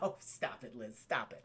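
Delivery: a soft, bashful mock MJ; coy hush. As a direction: brush off the compliment quietly. MJ coyly brushing off Liz.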